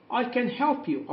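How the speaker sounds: slow teacher repeat; slow modelling. Shown as a demonstration. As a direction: repeat it slowly for the class. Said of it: "أستطيع أن أساعدك".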